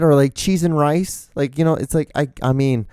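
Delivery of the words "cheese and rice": high-pitched substitute curse; mock mad. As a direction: imitate a prim person cursing mildly. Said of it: "they use fudge".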